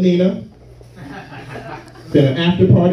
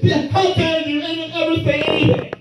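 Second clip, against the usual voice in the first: much higher, sing-song mock indignation; mocking outrage; 14 semitones higher than usual. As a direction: parody the defenders.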